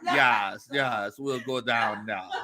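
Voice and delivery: slow imitation of a New Orleans accent. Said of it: "a New Orleans accent".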